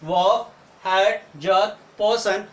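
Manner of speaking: "वॉक, हर्ट, जर्क, पर्सन" slowly, every R silent. Shown as a demonstration. Teacher recaps examples, "वॉक, हर्ट, जर्क, पर्सन" without R. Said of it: "आर का उच्चारण नहीं होता".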